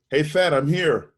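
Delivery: high, loud eager greeting into the payphone; excited call. Retold or imitated. Young sax player calling bandleader from the airport, excited and loud. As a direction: announce yourself like you just landed. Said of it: "and he goes".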